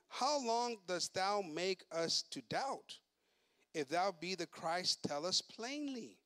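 slow, measured King James reading; slow scripture reading. Acted. Preacher reading the Jews' challenge, slow and solemn. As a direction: read the verse slowly and weightily.

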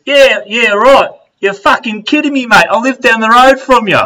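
high, loud holler of disbelief; imitated incredulous shout. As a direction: call back like an amazed fellow countryman. Same stranger calling back in disbelief.

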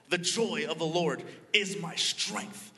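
showing the mother how to shout it out. Retold or imitated. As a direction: belt "The joy of the Lord is my strength" like a cheer. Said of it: "No, shout it out".

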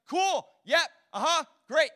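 loud, high, breezy fake agreement; dismissive brush-off. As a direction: toss off the yeses without listening. Us brushing off God.

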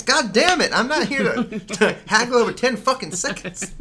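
shouting, high and loud, in a fake rage; mock angry outburst. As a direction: blow up over a few seconds like a hammy boss. Acted angry producer outburst.

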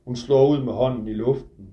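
measured literary reading, close and intimate; novel reading. A narrator's reading. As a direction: author reading his own book aloud. Author reads his novel aloud.

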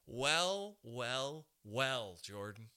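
drawn-out mock gloating well well well; smug boss. Comic retelling his Staples manager before firing him, mock gloating. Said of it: "She goes".

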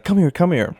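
high, loud mock-menacing come here; joking threat. Guy teasing the girl he'd push over, mock threat. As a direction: pretend you'll shove her off. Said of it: "jokingly threatened to push her over".

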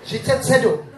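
laughing repeat. Real, not acted. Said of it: "Já jich napočítal třicet sedm".

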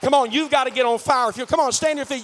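shouted altar call; rousing shout. Real, not acted. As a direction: fire the congregation up. Rousing congregation to stand.

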